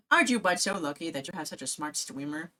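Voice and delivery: fast, cooing pet talk; baby talk to a pet. Acted.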